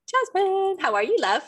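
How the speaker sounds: welcoming the guest with a high, lively call; excited introduction. Real, not acted. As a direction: announce the name high and bright.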